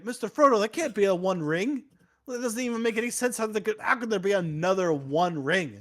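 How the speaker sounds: high-pitched fretting, quick in the middle; a squeaky hobbit who can't believe it; disbelieving Samwise. Retold or imitated. Samwise doubts Frodo's find in a high, quick fret. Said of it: "And Sam's like".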